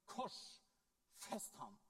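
very slow, broken into two heavy beats; drawn-out retold cry. Preacher voicing Kaifas calling out the sentence, slow and deliberate. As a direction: draw out each half, no real shout. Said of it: "roper ut av sin munn".

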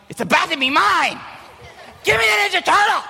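put-on high shouted kid demand. Big brother yelling at little brother, high demand. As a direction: yell for the toy like a bossy child. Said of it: "I'm like".

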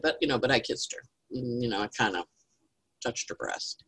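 whispered shy confession; boy whispering. Acted. Altar boy whispering to the priest in confession. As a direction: hush it like a secret. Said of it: "And he said".

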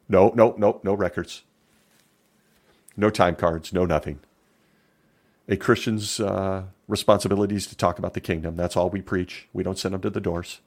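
hurried, pious brushing off; mild hammed-up denial from the witness; mock evasive denial. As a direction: play innocent about any records. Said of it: "gets on the stand and says".

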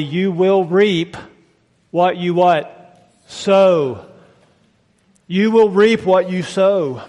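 slow, weighty stress on "reap" and "sow"; emphatic declaration. Acted. Preacher prompting the congregation on reaping what they sow, slow and emphatic. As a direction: spell out "You will reap" deliberately, word by word. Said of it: "says very loudly".

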